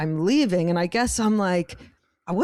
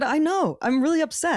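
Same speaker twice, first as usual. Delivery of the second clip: laughing quote; 7 semitones higher than usual. Retold or imitated. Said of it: "I said".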